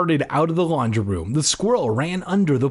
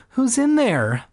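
shouting at the cabinet door; calling out; 10 semitones higher than usual. Acted. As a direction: call out nervously at the door. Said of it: "I called".

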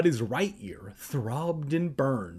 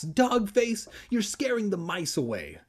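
wailing; 7 semitones higher than usual. Acted. Kermit wailing at the dog scattering his mice. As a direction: wail the dog's name in despair. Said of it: "Kermit wailed".

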